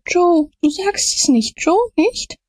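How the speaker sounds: very high, desperate begging; terrified pleading. A narrator's reading. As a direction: beg on your knees, high and frantic. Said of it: "fiel auf die Knie ... hob beschwörend die Hände". (hoch, verzweifelt flehend)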